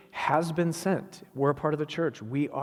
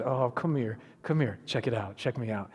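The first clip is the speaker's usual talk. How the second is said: easy beckoning, dropping lower; gentle invitation; 3 semitones lower than usual. Acted. Preacher as Jesus calling the disciples closer, gently inviting. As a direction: coax them over, softening as you go.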